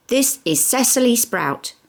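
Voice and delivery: put-on high, piping small child; little twin voice. Small twin proudly introduces carrot to Nicholas, in a high piping child voice.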